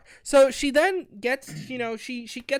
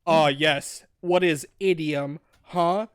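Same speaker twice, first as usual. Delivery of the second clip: stilted gentleman voice; 5 semitones lower, 4 dB louder than usual. Retold or imitated. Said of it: "he fucking talks like".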